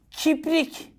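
put-on "Kiprik" in a high childlike voice; childish mispronunciation. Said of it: "eskiden ne derdik".

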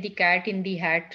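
each word said slowly and apart; slow read-out example. Shown as a demonstration. Teacher slowly reading the example to students. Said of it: "So अगर आप English में देखें".

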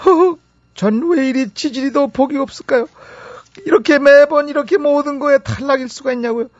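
high-pitched, hammed-up complaint; aggrieved lament. Rejected student lamenting her constant bad luck, aggrieved.

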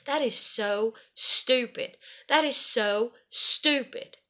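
slow, drawn-out quoted verdict; retold, deliberate emphasis; emphatic disbelief. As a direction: spell out the townspeople's disbelief slowly. Quotes townspeople's judgement.

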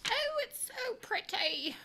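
breathy high whisper of delight; awed whisper. Real, not acted. Vlogger whispers in awe at a new palette. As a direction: gasp it in wonder.

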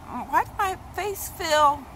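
squealing over her own tight skin; amazed excitement. Retold or imitated. Retelling her morning surprise, high excited squeal. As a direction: voice shooting high and loud, giddy disbelief. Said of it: "I was like".

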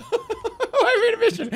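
laughing exclamation. Real, not acted. Laughing repetition.

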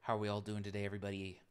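low, smooth DJ patter over the music; radio host voice. Pretend. Streamer mimicking a radio host, low and smooth. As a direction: play the radio DJ welcoming listeners. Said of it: "I wanted to sound like a, like a radio host".

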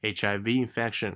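V linked straight into infection; connected reading. Shown as a demonstration. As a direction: run the letters into the next word. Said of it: "给它连贯一点".

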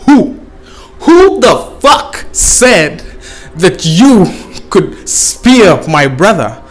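angry gazelle. Acted. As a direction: drag out the gazelle's demand. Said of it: "Gazelle is like".

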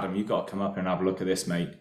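quick, understated retold summons; deadpan serious. Welder calls inspector up to see a crack, deadpan. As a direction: imitate a workmate keeping a straight face. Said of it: "Deadpan serious".

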